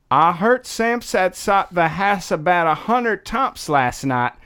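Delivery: slight Southern twang on the Baltimore line; a little Southern accent. Shown as a demonstration. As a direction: try at Baltimore that drifts Southern. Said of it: "You went a little southern".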